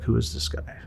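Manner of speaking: hushed, airy aside imitating onlookers; retold whisper. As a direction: half-whisper it, as coaches murmuring among themselves. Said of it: "kinda, like, whisper".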